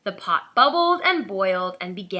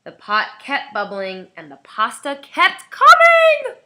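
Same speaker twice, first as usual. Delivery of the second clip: louder urgent telling; alarmed narration; 4 semitones higher, 9 dB louder than usual. A narrator's reading. Narrator heightening the pasta flood. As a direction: build the panic.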